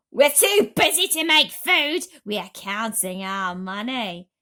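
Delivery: loud, slow dismissive aunts; angry. Acted. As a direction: brush him off coldly. Aunts throw James out.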